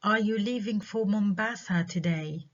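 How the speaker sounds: slow question, lifting towards "today"; rising yes-no question. Shown as a demonstration. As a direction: ask it, keeping "today" open and unfinished. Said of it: "rising intonation".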